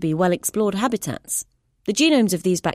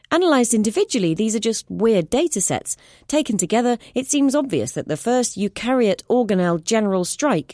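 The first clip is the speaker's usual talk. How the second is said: higher, earnest explaining voice; urgent scientist; 6 semitones higher than usual. Acted. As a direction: lay out the evidence urgently. Clara explains findings.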